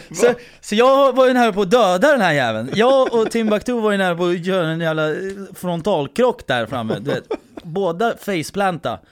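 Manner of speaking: high, loud talk through laughter; can barely hold back the laughter; laughing. Real, not acted. Laughing while telling the crash. (skrattande, högt)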